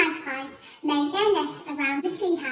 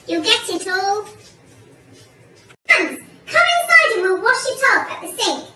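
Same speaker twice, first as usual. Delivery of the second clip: raised, insistent scolding; urgent cry; 5 semitones higher, 6 dB louder than usual. A narrator's reading. Missus Twit ordering him inside to wash, urgent cry. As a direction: call out loud orders. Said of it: "cried Missus Twit".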